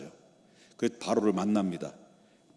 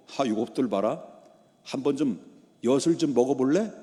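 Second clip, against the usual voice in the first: mildly mocking, acted Pharaoh; a touch of derisive challenge; scornful sneer. Pharaoh scoffing at two upstarts, mild acted scorn. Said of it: "갑자기 비웃으면서".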